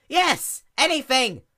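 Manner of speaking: high, loud eager plea; desperate. A narrator's reading. Princess pleads loudly for the sea pony's help. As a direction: beg for any help.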